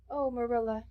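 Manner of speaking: lightly voiced sad girl, understated sorrow; sorrowful. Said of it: "she said sorrowfully".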